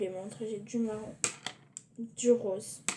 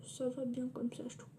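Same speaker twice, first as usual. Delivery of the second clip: whispering; 5 dB quieter than usual. Real, not acted. Parents asleep, whispering.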